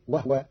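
"وهو" said wahwa, ha without vowel; silent ha. Shown as a demonstration. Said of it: "بإسكان الهاء".

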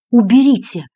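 ordinary delivery, nothing marked

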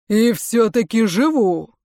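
slow, emphatic proclamation; defiant exclamation. A narrator's reading. Лжевечный answering father, defiant exclamation. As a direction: exclaim it, leaning on every word. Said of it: "воскликнул Лжевечный".

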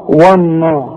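والنا with a thick و; the student's mistaken heavy و; wrong heavy و. Shown as a demonstration. Teacher repeats the wrong والنا to correct it. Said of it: "غلط".

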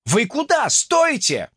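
high, loud shouts after the ship; a surprised guard yelling at the drifting ship; alarmed calling out. Acted. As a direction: call out, startled, trying to stop them. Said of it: "изумлённый возглас".

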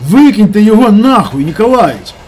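very loud, high furious screaming; furious yell. Acted. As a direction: scream at him to throw the guy out. Kolya keeps yelling at boss.

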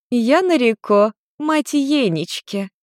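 high, slow, sweet mother voice; mother greeting her son's girlfriend; smiling mother. Acted. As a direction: greet the girl with a smile. Nariko introduces herself.

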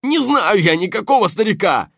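high loud shout, thug's voice, fake denial; insincere shout. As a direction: yell the lie, too loud. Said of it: "неискренне закричал противник". (неискренний крик)

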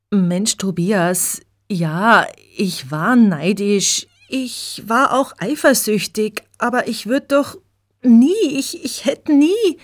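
immer höher, den Tränen nahe; stockend, mit brechender Stimme beteuern; schluchzend. A narrator's reading. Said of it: "verlässt schluchzend die Garderobe". (Regina beteuert unter Tränen ihre Unschuld)

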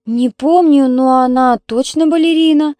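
loud, high, stubborn insistence; insistent child. Acted. Little sister defends her ballerina news, insisting.

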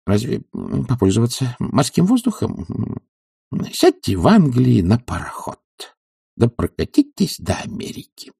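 a self-assured physician lecturing his patient; doctor's voice. Acted. Doctor prescribing a regimen to Oblomov, confidently.

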